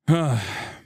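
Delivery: short, heavy sigh; exasperated sigh. Real, not acted. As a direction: let out a weary sigh. Exasperated reaction after reading post.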